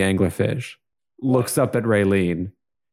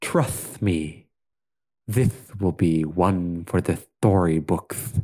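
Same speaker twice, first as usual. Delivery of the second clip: low-key lisping character voice; lisping sea creature; 3 semitones lower, slower than usual. Acted. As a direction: speak gently through a lisp. Plays Raylene in the story.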